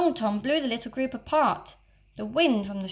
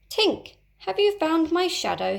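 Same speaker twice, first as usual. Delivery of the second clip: Peter calls out high and loud; calling out; 8 semitones higher, 4 dB louder than usual. Acted. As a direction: boyish high call across the room. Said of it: "he called".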